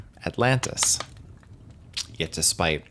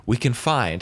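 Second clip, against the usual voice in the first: "find" punched higher, set off by a pause; stress on find; 4 semitones higher than usual. Real, not acted. Host flags that bases are only claimed, stress on "find". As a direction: lean on the word "find". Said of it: "I emphasis the word of find".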